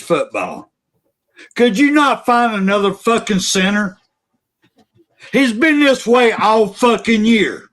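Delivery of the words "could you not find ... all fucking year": real heated tirade, shouting in spots; angry rant at the center; wound up. Real, not acted. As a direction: vent at the coach, all fired up. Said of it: "Sorry, I got wound up".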